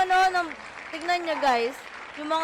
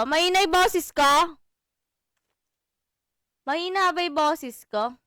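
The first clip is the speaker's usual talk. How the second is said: boses ko said much louder, checking the mic; louder test of the voice; 9 dB louder than usual. Shown as a demonstration. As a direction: push the volume right up on boses. (mas malakas na boses, sinusubok ang mic)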